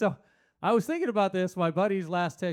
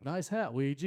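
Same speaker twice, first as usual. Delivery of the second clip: mean-sounding compliment; 3 dB quieter than usual. Shown as a demonstration. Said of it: "it sounds mean".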